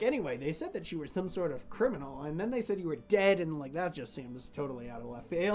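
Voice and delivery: low-key aside in passing; offhand chatter while walking away. Acted. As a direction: ramble on to nobody in particular. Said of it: "saying this just at normal volume as he's walking away".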